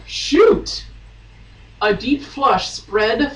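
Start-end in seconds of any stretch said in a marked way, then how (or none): 0.1-0.8 mock dismay. Reading dramatic exclamation.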